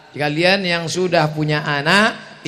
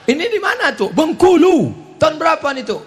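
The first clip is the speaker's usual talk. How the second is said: put-on child voice; 10 semitones higher, 4 dB louder, faster than usual. Grandchild asks about old photo.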